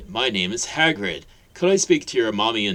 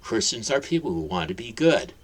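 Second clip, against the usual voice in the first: louder, patient fatherly explaining; wise explanation; 3 dB louder than usual. Acted. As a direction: explain gently to a child at eye level. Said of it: "Hagrid explained wisely".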